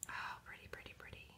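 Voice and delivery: breathy whisper of admiration; whispered pretty. Real, not acted. To her viewers, admiring the orange swatch in a whisper. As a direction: hush it out in awe.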